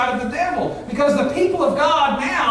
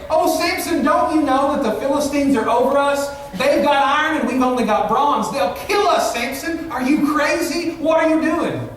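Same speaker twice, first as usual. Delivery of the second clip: mock cowardly plea; 3 semitones higher than usual. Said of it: "the cowardly words they had".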